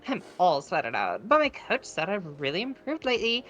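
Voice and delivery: put-on Valley Girl accent. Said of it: "we could try Valley".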